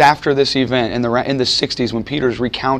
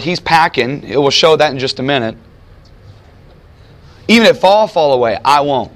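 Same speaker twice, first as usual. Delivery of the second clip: eager fighter pledging loyalty; zealous Peter; 2 semitones higher than usual. Retold or imitated. Peter pledging to fight beside Jesus, fired-up rebel zeal. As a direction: sell it like a rebel soldier ready to die. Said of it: "He's thinking".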